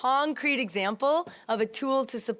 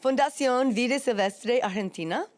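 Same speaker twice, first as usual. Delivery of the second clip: non-native go at a Spanish accent; attempted Spanish accent; 2 semitones higher, 3 dB louder than usual. Shown as a demonstration. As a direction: read the name out in careful, learner's Spanish.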